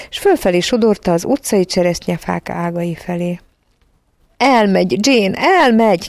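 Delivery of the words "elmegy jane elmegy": high, drawn-out lament without real sobs; tearful cry. A narrator's reading. Michael calls to Jane as Mary leaves, tearful cry. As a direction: cry it out in mild anguish. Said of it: "kiáltotta sírva Michael".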